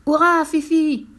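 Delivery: hourra plus haut et plus fort; cri de la foule. Acted. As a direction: criez comme toute une foule. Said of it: "Ils criaient tous". (le public acclame Fifi, grand cri)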